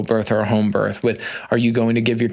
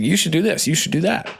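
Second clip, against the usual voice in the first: higher, preachy parent voice; mimicking bossy parents; 6 semitones higher than usual. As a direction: imitate grandparents giving orders. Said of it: "And they come in, like".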